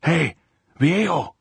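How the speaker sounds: high, loud hail to someone far off; shouting. A narrator's reading. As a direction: shout out to get his attention. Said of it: "she shouted".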